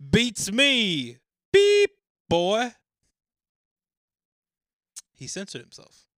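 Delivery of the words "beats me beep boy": loud, high Aussie voice; louder, higher Australian; Australian accent. Acted. Reading a censored answer in an Australian accent. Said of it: "in my Down Under accent".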